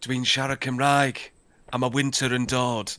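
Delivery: a hint of a brooding actor fumbling Welsh; Kit Harington speaking Welsh. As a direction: Welsh from a brooding hero, only lightly put on. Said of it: "what would Kit Harington sound like if he spoke Welsh".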